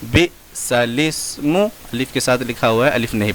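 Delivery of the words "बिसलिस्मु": बिसलिस्मु in slow separated syllables, ending on मु; slow teaching readout of बिसलिस्मु; correct recitation. Shown as a demonstration. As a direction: pause between syllables of बिसलिस्मु. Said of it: "लेकिन पढ़ा जाएगा".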